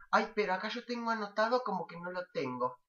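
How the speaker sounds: mock the fussy school clerk; a hint of a whiny school clerk; imitating the school preceptor. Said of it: "me sale imitar re bien ahí, preceptora".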